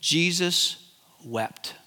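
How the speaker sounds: hushed, weighty Jesus wept; slow solemn reading. Shown as a demonstration. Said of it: "John eleven thirty-five says".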